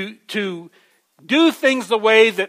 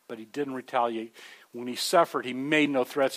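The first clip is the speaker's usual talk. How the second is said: quiet; 7 semitones lower, 12 dB quieter than usual. Acted. Preacher repeats Peter's verse.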